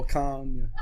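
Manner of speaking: A rapper's name with a long ah, like "barn"; Carn-yay pronunciation. Shown as a demonstration. Repeating his own long-ah version.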